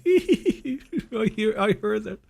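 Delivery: high, loud mock giggle; teasing girlfriend. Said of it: "And then she goes".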